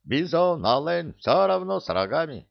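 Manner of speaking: put-on high, accented comic protest; indignant. A narrator's reading. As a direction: argue it away, voice pitched right up. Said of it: "возмутился Гиви". (возмущённо и высоко, с кавказским акцентом)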